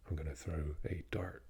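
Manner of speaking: West Country or American R in "dart"; American-West Country accent. Shown as a demonstration. Showing the American contrast, accent with R sounded in "dart". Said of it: "With the American and the West Country".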